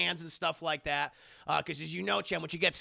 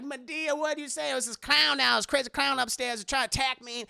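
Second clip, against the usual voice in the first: agitated retelling; 6 semitones higher, 3 dB louder than usual. Acted. Acting characters after clown attack.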